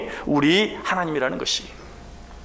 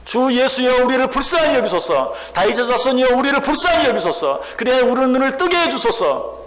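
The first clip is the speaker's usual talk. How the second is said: high pleading cry, held to the end; 6 semitones higher than usual. Acted. Plead up high like a desperate beggar. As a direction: blind men shouting to Jesus for sight, a high pleading cry. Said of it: "라고 소리 지르는 그들을".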